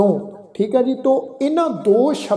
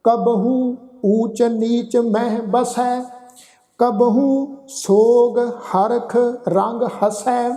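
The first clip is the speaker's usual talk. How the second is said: slow, measured Gurbani reading; scripture recitation; 2 semitones higher, much slower than usual. Shown as a demonstration. Teacher recites verse for congregation, slow sustained recitation. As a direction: draw out the line endings, pausing between phrases.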